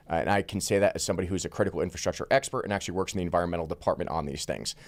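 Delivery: hurried, fast-running explanation; talking very fast. Real, not acted. Guest rushing through his credentials on infrastructure, talking very fast. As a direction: rattle through it quickly. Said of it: "you're talking very fast".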